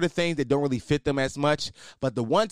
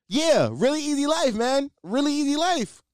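dreamy sing-song; 9 semitones higher than usual. Real, not acted. Dreamy nostalgia for lockdown.

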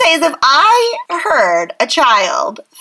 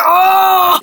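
louder, higher, mock-scandalized oh; mock shock; 5 semitones higher, 4 dB louder than usual. Host retelling reaction to a price tag jab, mock shock. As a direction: gasp it out, pretending to be appalled.

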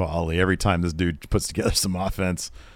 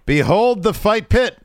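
grand announcement; 12 semitones higher, 4 dB louder, slower than usual. Retold or imitated. Retold Seth promo.

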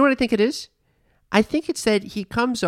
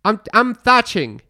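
slow, a hint of a British accent; mock British accent; 4 semitones higher, 4 dB louder than usual. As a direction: play a rural English thatcher, lightly. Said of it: "talking in a British accent".

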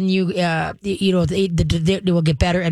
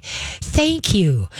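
calm thank you. Shown as a demonstration. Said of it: "very calmly acknowledge".

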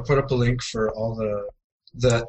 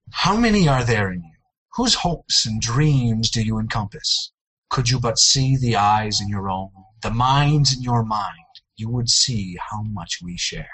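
movie trailer voice. Pretend. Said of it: "read them out loud in an epic voice".

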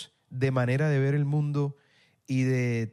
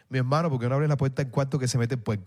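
light Cartagena costeño accent, dropped endings, imitated; 3 semitones lower than usual. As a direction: do a Cartagena local who swallows his consonants. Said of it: "la gente dice".

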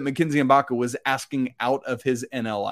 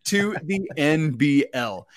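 slow, drawn-out attempt at an Aussie accent; botched Australian accent; slower than usual. Co-host finishing the player news in a butchered Australian accent. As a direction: stretch it out in a bad Australian accent. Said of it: "forgive me, everyone, for butchering that".

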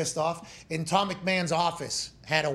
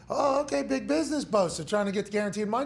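much higher, sarcastic mocking tone; mock sarcastic exec; 5 semitones higher, faster than usual. Team staff sneering at the holdout, high and sarcastic. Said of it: "they're like".

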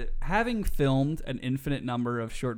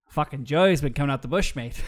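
Australian attempt that comes out Irish; badly faked Australian accent; botched Australian accent; 3 dB louder than usual. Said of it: "do it in an Australian accent, not Irish".

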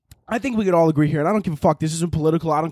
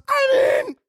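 mock Twitter CEO; 9 semitones higher, slower than usual. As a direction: play it down like a shrugging exec. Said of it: "Twitter goes".

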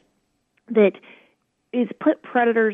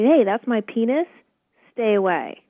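put-on firm child's warning; 3 semitones higher than usual. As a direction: stand your ground like a kid. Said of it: "Your child will say".

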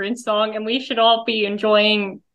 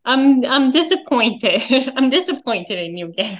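librarian voice. Acted. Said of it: "the librarian voice from Linda".

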